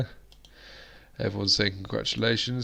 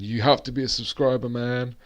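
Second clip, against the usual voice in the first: lightly put-on American accent; a jokey stab at an American accent; terrible American accent; 3 semitones higher than usual. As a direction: do a bad mock-American accent. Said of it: "that was my terrible American accent".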